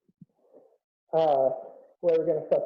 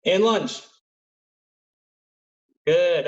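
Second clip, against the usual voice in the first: calling out; 6 dB louder, slower than usual. Real, not acted. Coach calling drill commands.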